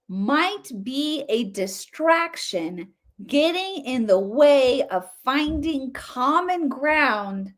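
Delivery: lightly imitating a slow, earnest speaker; mock slow TED voice. Commentator mimics the TED speaker's slow, soothing delivery, mocking. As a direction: drawl each phrase out slowly, mocking her gentle tone. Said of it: "don't you love how though she says it".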